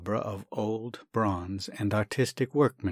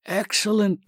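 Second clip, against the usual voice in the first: much higher, louder delighted cry; pleased exclamation; 11 semitones higher, 5 dB louder than usual. Acted. Doctor thinking of the lawyer, delighted cry. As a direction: hit on the idea with relief.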